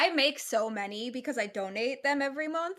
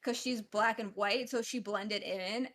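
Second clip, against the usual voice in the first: ordinary delivery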